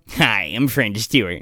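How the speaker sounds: low, comic celebrity impression; French Stewart. Podcaster retrying an actor impression, low-voiced. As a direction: drop the pitch for a mock actor greeting. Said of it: "he kinda sounds like Kaminsky now".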